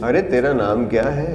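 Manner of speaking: slowed-down delivery of the question; slow, deliberate asking. Shown as a demonstration. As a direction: drag the line out slowly. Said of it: "हाँ, ये tempo.".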